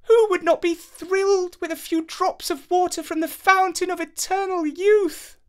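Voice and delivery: high, bright exclamation of joy; delighted princess exclaiming. Acted. Princess thrilled with the magic water, high and delighted. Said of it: "she exclaimed".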